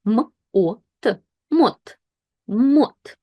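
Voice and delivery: "m", "o", "t" apart, blended into "мот"; "мот" modelled with a full o; letters then syllable. Shown as a demonstration. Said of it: "And here we have".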